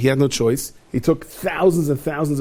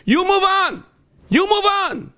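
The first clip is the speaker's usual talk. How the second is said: high dismissive voice; slower than usual. Acted. Hashem dismissing the angels.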